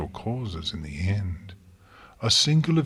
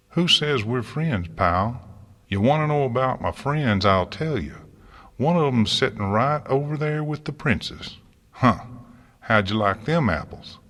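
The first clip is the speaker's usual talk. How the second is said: angry retort; 4 semitones higher, 3 dB louder than usual. Acted. Farmer retorts in quarrel.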